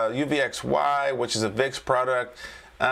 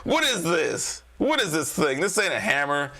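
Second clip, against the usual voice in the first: hammed-up Chicago wise guy; J J, terrible Chicago accent; 4 semitones higher than usual. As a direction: scoff in a badly faked Chicago accent. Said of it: "That's just my terrible, uh, uh, Chicago accent".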